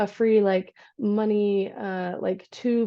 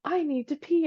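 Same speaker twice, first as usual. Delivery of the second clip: lightly voiced toddler, pitched up; higher, small toddler imitation; two-year-old; 5 semitones higher than usual. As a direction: imitate a little kid announcing a need. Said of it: "my two-year-old's like".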